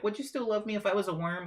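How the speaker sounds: mock girly meme voice. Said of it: "all the girls are like".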